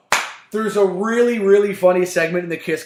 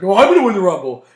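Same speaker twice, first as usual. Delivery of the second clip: mock Batista boast; 2 semitones higher, 6 dB louder, much faster than usual. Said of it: "Batista's like".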